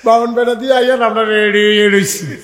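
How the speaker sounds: loud, taunting dare; defiant challenge. Acted. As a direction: throw the dare back hard. Defiant challenge repeated to India.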